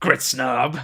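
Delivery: said with anger. Speaker shows the other players how the phrase must be said, with anger. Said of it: "That's how you say it with anger".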